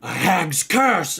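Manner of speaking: loud, high, drawn-out playful cry; mock-dramatic alarm. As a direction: announce a dreadful curse to tease a child. Healer mock-diagnoses the little girl.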